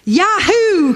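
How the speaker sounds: delighted volunteer's yahoo; eager cheer. Acted. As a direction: whoop like a keen volunteer. Cartoon man eagerly volunteers to God.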